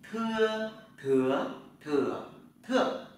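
"thưa" with a puff of air, through four tones, loud; aspirated thưa drill. Shown as a demonstration. Teacher showing students the aspirated "thưa". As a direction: breathe out hard on "thưa" each tone. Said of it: "Chúng ta tập lại nhé".

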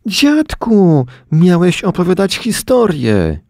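put-on high, outraged kid voice; indignant children. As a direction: protest like offended kids. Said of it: "Oburzyły się dzieci".

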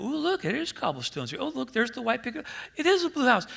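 mock amazement. Preacher mocking pilgrims who find the street, with mock gasping wonder. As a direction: gush like a dazzled tourist.

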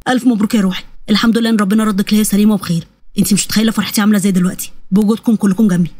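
low-pitched, loving congratulations; relieved husband in a low voice; joyful, tender. Acted. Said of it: "وجري بجد عليها بيبوس راسها بفرحة".

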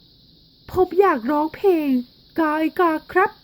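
put-on a small boy asking to sing; little boy. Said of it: "เด็กชายมีใจพูดว่า". (เด็กชายมีใจขอร้องเพลง เสียงเด็กสูง)

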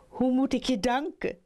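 put-on high, quick young frog; verliefde jonge kikker. Young frog thanks old frog. (hoge, snelle stem van de jonge kikker)

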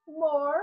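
"mor" set apart as one syllable; isolated syllable. Shown as a demonstration. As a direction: say "mor" alone, with pauses round it. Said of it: "outra sílaba".

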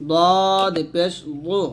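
"দদ পেশ দু" slowly with an emphatic Arabic Dad; thick, heavy Dad. Shown as a demonstration. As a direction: draw out "দদ" thick and full. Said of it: "মোটা করে". ("দু" মোটা করে উচ্চারণ)

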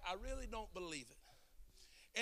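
slow, soft mock disbelief; sarcastic look. Man at the deli doubting the preacher, mock sarcastic. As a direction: drawl it like you doubt every word. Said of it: "a dumb, sarcastic look".

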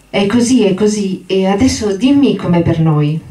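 put-on high, eager childlike giant's voice; childlike Lenny. Lenny begging George for the story, high and eager. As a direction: plead like an overgrown child, voice up high.

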